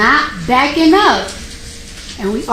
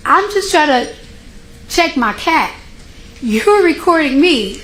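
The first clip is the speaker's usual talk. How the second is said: pitched up, arguing back hard; standing your ground against the security guard, raised voice; retold heated shouting; 4 semitones higher than usual. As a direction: relive the fight, voice high and insistent. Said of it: "we're literally screaming at each other".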